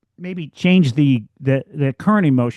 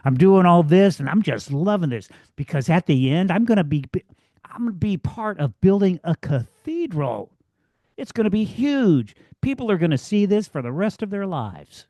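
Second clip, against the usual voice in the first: enthusiastic mason; 4 semitones higher than usual. Retold or imitated. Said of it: "different attitude towards the work".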